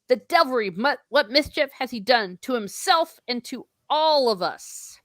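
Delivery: a touch of an alarmed wizard; Gandalf exclaiming. Acted. Gandalf on finding Pippin fallen, lightly acted alarm. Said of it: "and Gandalf goes".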